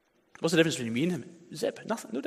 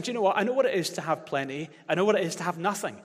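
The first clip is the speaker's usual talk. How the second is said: voicing Paul; 5 semitones higher than usual. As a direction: proclaim it as Paul would. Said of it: "Paul was saying".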